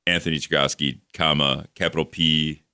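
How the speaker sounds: spelling a byline aloud; dictating. Retold or imitated. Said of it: "I've been doing".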